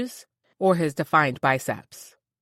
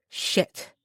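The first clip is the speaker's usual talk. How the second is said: under-the-breath Shit, voiceless; whispered curse; 3 dB quieter than usual. Acted. Narrator curses to herself on realizing her mistake, whispered. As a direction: hiss it to yourself in dismay.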